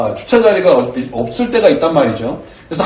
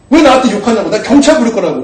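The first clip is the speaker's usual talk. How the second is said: higher and louder, imitating a heated woman; mock angry threat; 5 semitones higher, 4 dB louder than usual. Woman threatening to call the police, imitated anger.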